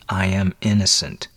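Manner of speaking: understated, held-in insistence; mildly grated protest. Acted. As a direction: restrain it, through a tight jaw. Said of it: "he grated".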